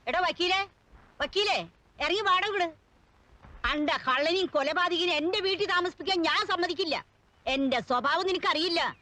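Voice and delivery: indignant landlady calling out the lawyer; outraged, insistent demand; angry commotion. Acted. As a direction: scold and order the tenant out. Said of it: "ഇവിടെന്താ ഒരു ബഹളം".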